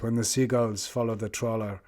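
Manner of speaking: lightly imitated thick French accent; retold footballer's line with a French accent. Footballer addressing waiting journalists, imitated French accent. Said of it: "thick French accent".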